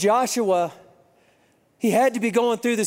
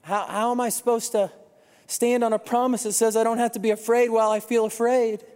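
retold crying prayer; 4 semitones higher than usual. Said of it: "I'm sitting in my car and I'm crying".

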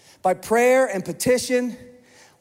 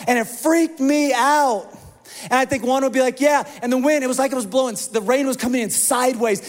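giddy disciple; 4 semitones higher than usual. Pretend. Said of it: "get so giddy up here and be like".

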